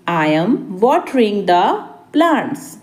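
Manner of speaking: deliberate, a bit soft; spaced-out repeat. Shown as a demonstration. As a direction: pause before the last word. Teacher repeats translation word by word. (रुक-रुककर)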